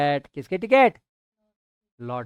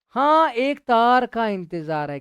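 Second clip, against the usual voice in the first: higher, louder, slow eager yes; eager reply; 6 semitones higher, 6 dB louder, slower than usual. Acted. Munshi ji telling Salim he awaits a telegram, eagerly. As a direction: lean into the hope of the telegram.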